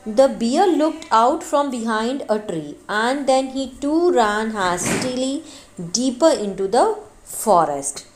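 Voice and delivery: slow, careful read-aloud of the English text; slow story reading. A narrator's reading. Teacher reading the fable to students, slow and careful. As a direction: read it out slowly for the class.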